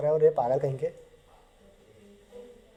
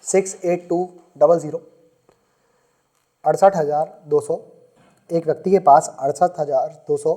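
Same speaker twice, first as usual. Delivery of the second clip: dictation. Shown as a demonstration. Teacher dictating a word problem to the class, measured dictation. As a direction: read it out so students can write it down. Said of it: "लिखो जरा".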